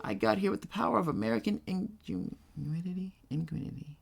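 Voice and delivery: "ingenuity" garbled, syllables tangled; stumbling over ingenuity. Real, not acted. Reading a game line, can't get ingenuity out. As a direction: trip over "ingenuity" and mash it. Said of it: "I can't say that word".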